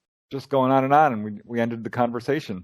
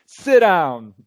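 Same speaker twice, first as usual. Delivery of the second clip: firm retort, pitched higher; replaying a firm put-down, higher; retold comeback; 4 semitones higher than usual. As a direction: shut the heckler down hard. Shutting down the heckler.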